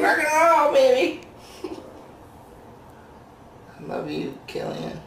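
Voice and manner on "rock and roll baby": very high little kitten voice; high-pitched, excited pet voice; voicing the kitten. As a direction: squeal it as a tiny rock-and-roll kitten. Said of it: "He's like".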